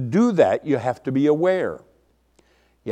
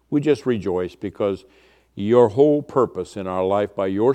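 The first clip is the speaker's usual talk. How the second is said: lower, even praying voice; public prayer; 5 semitones lower than usual. Real, not acted. Pastor opens the evening Bible study in prayer, low and measured. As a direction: pray simply and steadily for the group.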